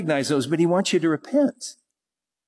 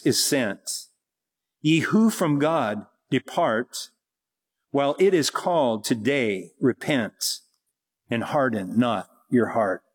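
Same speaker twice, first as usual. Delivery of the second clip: solemn poem recitation. Acted. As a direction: lay each line down gravely like a hymn. Recites a hymn poem slowly.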